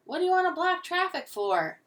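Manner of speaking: high, loud driver's complaint; calling out. A narrator's reading. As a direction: yell it out of a car window. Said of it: "he called out".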